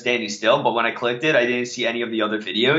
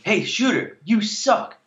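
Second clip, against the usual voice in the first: mock yell; 9 semitones higher, slower than usual. Teasing his co-host about yelling at an actor, mock yell. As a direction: fake a yell without real volume. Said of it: "Are you gonna yell to him".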